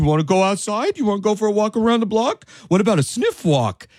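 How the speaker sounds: put-on high, cooing baby talk. Speaker acts out greeting their dog after coming home from work, baby talk to a dog. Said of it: "I'm a baby talker to dogs".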